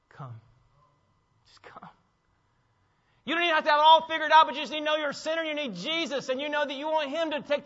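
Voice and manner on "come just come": hushed, tender call to come; soft, almost whispered welcome; gentle invitation. Acted. Preacher voicing Jesus inviting the weary, very soft and tender. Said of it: "Jesus says".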